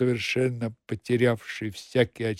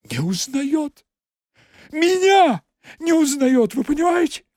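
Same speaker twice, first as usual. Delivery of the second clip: high sobbing outcry; 14 semitones higher, 5 dB louder than usual. Acted. Secretary complaining to the accountant, sobbing. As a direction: break into sobs. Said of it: "взрыдала".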